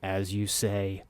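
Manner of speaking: lightly voiced flat reply; flat, sure. A narrator's reading. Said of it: "His tone was flat, yet sure".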